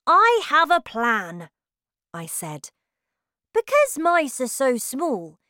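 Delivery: put-on high, bright young boy voice; child voice. A narrator's reading. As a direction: voice the little boy lightly. Child mouse voice.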